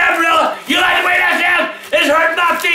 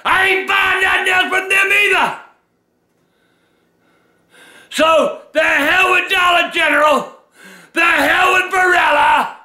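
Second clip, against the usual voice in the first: angry shouting. Acted. Furious rant at pasta brand.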